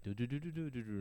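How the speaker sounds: quiet, quick run of do-do-do; imitated zooming. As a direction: imitate zipping through, softly. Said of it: "He was like".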